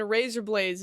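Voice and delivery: lightly Australian "razor blades"; a touch of Australian accent. Shown as a demonstration. Streamer showing chat what the trick sounds like, Australian accent. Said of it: "in an Australian accent".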